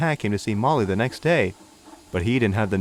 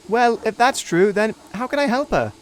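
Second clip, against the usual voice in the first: put-on higher, earnest young engine; puzzled Neville; 9 semitones higher than usual. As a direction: plead confusedly. Neville voice again.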